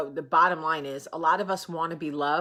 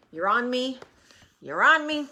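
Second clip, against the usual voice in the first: rising exasperation; 4 semitones higher, 6 dB louder than usual. Real, not acted. Repeating to dog, rising.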